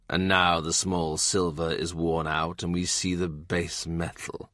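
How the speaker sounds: put-on a scornful old lawyer; quiet sneering voice. More's disdain.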